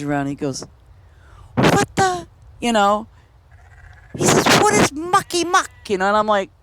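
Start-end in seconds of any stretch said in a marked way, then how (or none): 1.5-2.3 high-pitched, baffled outburst; baffled reaction. Retold or imitated. George reacting to a strange expression, baffled. 4.6-5.7 high-pitched, incredulous demand; baffled question. Retold or imitated. George questioning an unknown phrase, incredulous.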